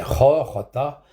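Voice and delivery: "ro, rota" with the Spanish J as a throaty rasp; Spanish J sound. Shown as a demonstration. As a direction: scrape the first sound of "ro" and "rota" at the back of the throat. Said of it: "C'est-à-dire, le J".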